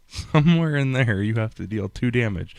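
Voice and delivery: amused, laugh breaking in at the start; real amused laugh. Real, not acted. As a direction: say it through a chuckle. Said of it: "I'm laughing because it's hilarious".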